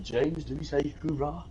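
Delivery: puzzled whisper. Retold or imitated.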